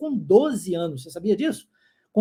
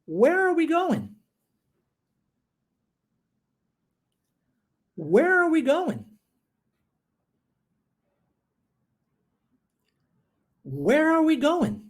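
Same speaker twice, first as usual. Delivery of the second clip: "Where are we going?" slow and higher for repeating; slow repeat-after-me; 6 semitones higher, slower than usual. Shown as a demonstration. Teacher tells students to close their eyes, then models slowly. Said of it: "escute e repita".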